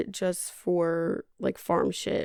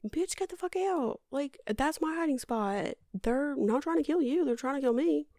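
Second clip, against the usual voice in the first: acted-out squabble, voice pitched up; indignant retort; 6 semitones higher than usual. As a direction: retell it as an exasperated, higher-pitched protest. Grace retold arguing over hiding spot.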